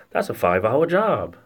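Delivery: mock protesting mechanic. Mechanic balks at doing the job, mock protest. Acting out reluctant mechanic's excuse.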